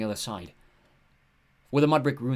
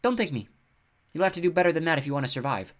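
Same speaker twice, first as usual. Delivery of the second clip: snorting scorn; 7 semitones higher, 4 dB louder than usual. Acted. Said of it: "The woman snorted".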